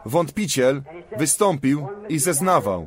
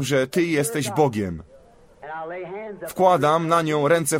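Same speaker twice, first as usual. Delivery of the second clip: fervent prayer voice, laying on hands; earnest prayer. Real, not acted. Preacher praying for a woman's healing, earnest prayer. Prays over the sick woman.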